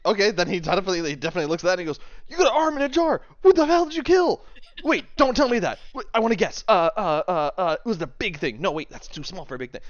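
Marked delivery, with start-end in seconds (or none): 2.3-9.8 loud, high excitement easing into eager guessing; head over heels. Acted. Fan sees an arm in a jar, thrilled. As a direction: shout in thrilled awe, then puzzle it out. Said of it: "He's just completely, like, head over heels".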